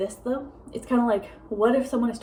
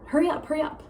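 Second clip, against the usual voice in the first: higher-pitched mock urging; impatient hurrying; 6 semitones higher, faster than usual. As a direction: imitate impatient nagging. Voicing rude demand to slow talkers.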